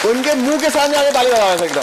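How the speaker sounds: calling out. Real, not acted. Instructor calling out to group.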